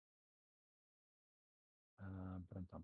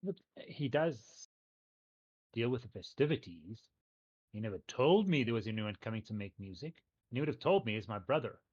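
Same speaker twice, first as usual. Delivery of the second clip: confused brother; 7 dB louder than usual. Acted. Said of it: "looks a bit confused and looks at you and goes".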